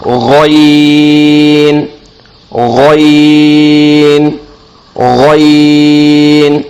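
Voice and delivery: غین drawn long with a throaty gargle; gargled gh. Shown as a demonstration. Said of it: "گلے سے زور لگا کر".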